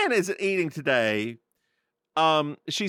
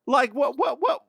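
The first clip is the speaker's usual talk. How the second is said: higher, louder, laughing disbelief; teasing disbelief; 11 semitones higher, 6 dB louder than usual. Real, not acted. Host teases her cohost about going to the opera in laughing disbelief. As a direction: tease her like she's absurd.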